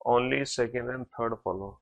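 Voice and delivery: very slow, word by word, reading out an answer; slow dictation. Shown as a demonstration. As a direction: spell out the answer slowly for students. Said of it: "केवल दूसरा और तीसरा निष्कर्ष अनुसरण करता है।".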